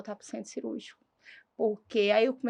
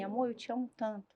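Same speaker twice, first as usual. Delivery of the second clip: softly voiced words of love, retold; fala baixa ao marido; 7 dB quieter than usual. Paciente na UTI fala com marido. (reencenando, em voz baixa e carinhosa)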